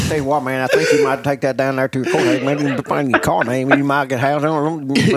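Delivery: mumbled Southern ramble trailing into babble; Boomhauer. Acted. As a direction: lightly slur it like a rambling Texan. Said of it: "he is Boomhauer from King of the Hill".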